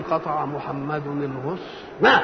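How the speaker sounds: halting "قطع محمد الغصن" with a punched last syllable; eager novice reading. Acted. Beginner reader compensating for his pause, eager burst at the end. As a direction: read haltingly, then burst out the final ending. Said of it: "ويقولها كده بشعفه".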